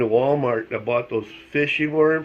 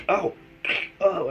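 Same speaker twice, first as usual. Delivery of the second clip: short retold "ow" cries; mock yelps of pain; 7 semitones higher than usual. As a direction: act out sudden jabs of pain. Acts out shooting pains in arm.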